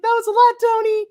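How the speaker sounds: very high, loud squeal of complaint; exasperated high-pitched holler; mock protesting yell. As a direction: whine it loudly, way up high. Retold complaint to Tony.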